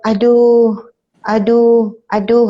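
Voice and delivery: mild groans of pain; imitating a sick man's complaint; imitated moaning. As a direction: moan like someone gravely ill, understated. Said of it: "keluarlah suara dia umpama mengaduh".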